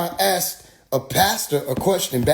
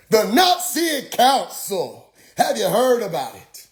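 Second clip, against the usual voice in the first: tag; 4 semitones higher than usual. Retold or imitated. Preacher deflects with history questions.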